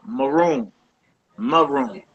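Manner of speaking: maroon drawn out slowly, first syllable 'muh'; short slurred vowel. Shown as a demonstration. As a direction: demonstrate maroon as muh-ROON. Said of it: "slurred sound".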